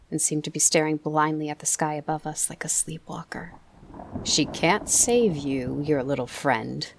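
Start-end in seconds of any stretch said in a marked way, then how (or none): 4.2-6.9 put-on sharp South African accent. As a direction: coax him to give up in a South African accent. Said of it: "he said".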